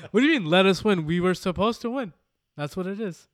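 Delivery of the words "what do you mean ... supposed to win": loud, high, laughing indignation; laughing protest. Real, not acted. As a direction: laugh it out in outrage.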